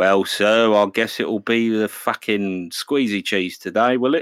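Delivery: dry, slow, drawn-out, fed-up drawl. Joking about being an assistant to an actor, answering him in a Michael Caine as Alfred voice. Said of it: "I'm method acting as Michael Caine as Alfred".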